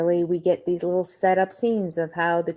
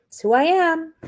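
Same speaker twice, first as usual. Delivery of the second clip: mock whiny quote; 10 semitones higher than usual. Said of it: "just say".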